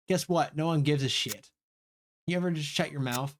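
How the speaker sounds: lightly voiced classmates trading jabs; heated character quarrel. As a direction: snipe back and forth, mildly heated.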